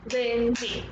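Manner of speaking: "Lindsay" split into its two beats; syllable by syllable. Shown as a demonstration. Teacher shows children the beats in a name, syllable by syllable. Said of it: "clap on each beat".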